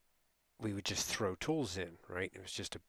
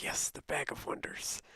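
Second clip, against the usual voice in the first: higher-pitched mock French Canadian accent; lightly hammed-up Quebec French accent; 6 semitones higher than usual. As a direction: imitate a buddy's French Canadian lilt. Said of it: "French Canadian accent".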